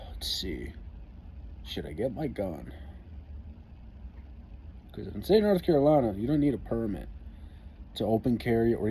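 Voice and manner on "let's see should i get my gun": thinking to himself in a whisper; whispered thought. Real, not acted. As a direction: whisper it, weighing your options. Thinking about getting his gun.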